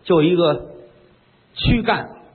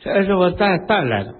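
stammering maid; 2 semitones higher than usual. Acted. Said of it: "嘴里吞吞吐吐".

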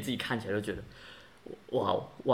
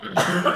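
coughing fit; 6 semitones higher, 4 dB louder than usual. Real, not acted. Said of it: "我被狗水呛到".

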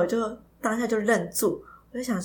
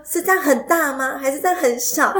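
mildly excited granny; 4 semitones higher than usual. Retold or imitated. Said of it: "她就很激动的".

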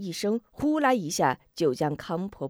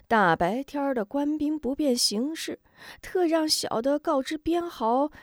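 high, nervous, hurried confession; a lackey spilling the secret to save his skin; cowardly henchman; 6 semitones higher than usual. Acted. Xu Ren confesses the plan.

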